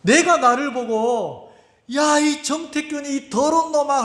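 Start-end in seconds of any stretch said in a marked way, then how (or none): 1.9-4.0 high-pitched mock yell; retold self-scolding shout. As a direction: re-enact yelling at yourself. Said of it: "내가 소리를 지르려고". (자신을 꾸짖는 고함 흉내)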